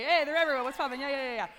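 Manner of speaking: loud, hyped-up greeting; excited shout-out. Real, not acted. Speaker spots her discipleship girls in the audience, excited shout-out. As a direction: call out to your friends in the crowd. Spotting her group in the crowd.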